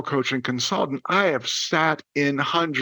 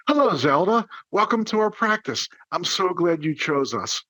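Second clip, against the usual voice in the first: sincere enthusiasm; 3 semitones higher than usual. Shown as a demonstration. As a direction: greet a new patient with sincere enthusiasm. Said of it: "say it with sincerity and enthusiasm".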